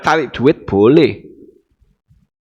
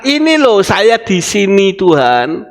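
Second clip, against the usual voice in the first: eager reply; 2 semitones higher than usual. Acted. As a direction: pitch it up, keen to be found. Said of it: "Harusnya begitu".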